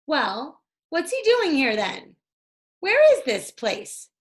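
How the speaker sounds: put-on a touch of boyish alarm; worried questioning. A narrator's reading. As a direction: press for answers, uneasy. Jack anxious questions.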